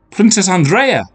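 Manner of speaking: high, loud princess call. Acted. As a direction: call joyfully across the meadow. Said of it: "came a voice from behind her".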